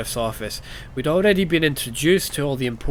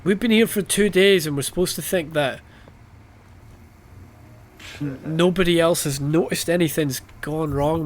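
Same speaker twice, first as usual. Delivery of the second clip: exasperated disbelief; 4 semitones higher than usual. Real, not acted. Exasperated rant at the game's plot.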